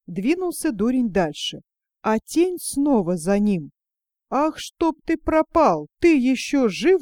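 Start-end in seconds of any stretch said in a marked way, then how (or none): 4.3-7.0 mock shout. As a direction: drag it out like an exasperated fool's shout. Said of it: "закричал дурень". (наигранный крик, выше и медленнее)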